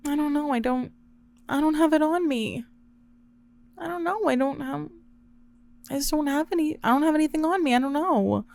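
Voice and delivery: high, soft tearful stammering; acting out a helpless whimper in broken phrases; mock sobbing. Sobbing to a friend over a totaled car, mock tearful.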